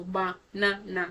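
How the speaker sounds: ba-na-na slowly split into three syllables; teacher's slow breakdown of ba-na-na. Shown as a demonstration. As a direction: sound out ba, na, na. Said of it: "So the second syllable is na".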